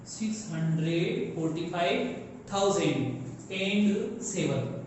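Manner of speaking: "Six hundred forty five thousand and seven" read slowly, word by word; slow read-through. Shown as a demonstration. Teacher reading a number slowly to students. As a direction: spell the number out slowly for the class. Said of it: "इन दोनों को एक साथ बोला जाएगा".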